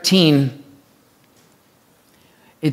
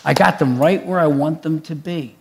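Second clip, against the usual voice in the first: gloating enemy; 3 semitones lower, 3 dB quieter than usual. Retold or imitated. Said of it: "the enemy is like".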